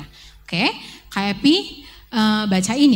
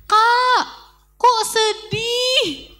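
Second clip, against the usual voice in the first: put-on high, loud little girl's call; little girl calling to a sad passerby; child shouting; 12 semitones higher, 3 dB louder, much slower than usual. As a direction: call out from inside the house, slow and drawn out. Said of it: "dia teriak ke K P".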